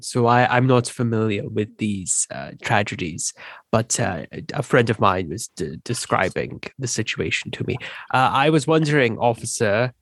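put-on hesitant, lightly accented gentleman; talking-to-humans voice. Newcomer politely addressing an officer, talking-to-humans voice. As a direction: politely stumble through a put-on human-talk voice. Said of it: "this is my special talking to humans voice".

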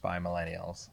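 trailing into a whisper. Real, not acted. Co-host quizzing his phone, fading to a whisper. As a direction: drop to a whisper at the end.

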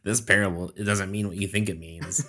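smug know-it-all nerd. Retold or imitated. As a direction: correct them like a pedantic nerd. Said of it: "it's my derogatory nerd voice".

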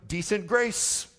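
loud, high, drawn-out mock hymn title; mock hymn title lifted high and slow. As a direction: sing out a deflated hymn title, mocking. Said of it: "then the song should be like".

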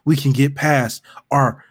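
slow, syrupy mock pleading; mock lovesick plea. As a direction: ham up the lovesick begging. Continuing the mock letter.

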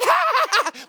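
loud, high mock laughter; exaggerated high ha-ha-ha; mimicked cackling. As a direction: laugh big and loud at someone else's blunder. Imitating laughing at fail videos.

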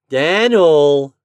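high, loud, drawn-out name; persuasive call. A narrator's reading. Boy at the stepladder to his turkey, persuasive. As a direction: stretch the name out to lure him. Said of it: "he called persuasively".

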